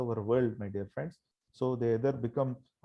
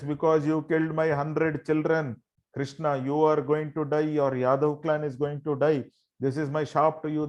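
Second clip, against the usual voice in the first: slightly raised, insistent pronouncement; a mildly voiced curse, steadily emphatic; retold curse; 3 semitones higher than usual. Grieving mother cursing Krishna over her hundred children, retold as a mild curse. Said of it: "she curses Krishna".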